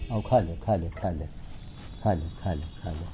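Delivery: low, softening repeated coaxing; low-pitched, easy urging to come and eat; gentle coaxing. Real, not acted. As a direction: coax an animal to eat, voice dropping low.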